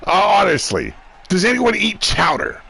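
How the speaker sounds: attempted Boston accent on "chowder" that comes out wrong; failed Boston accent. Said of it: "I'm saying it wrong. I don't have a Boston accent".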